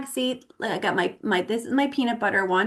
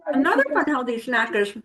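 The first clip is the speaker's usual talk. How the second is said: talking through a mouthful; words round a bite of food; mouth full. Real, not acted. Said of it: "I'm eating with my mouth full".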